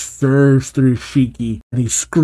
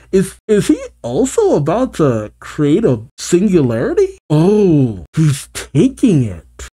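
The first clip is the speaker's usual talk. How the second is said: pitched-up, wondering reaction; excited realization; 4 semitones higher than usual. Pretend. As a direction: react as the twist dawns on you. Narrator reacts to story's twist.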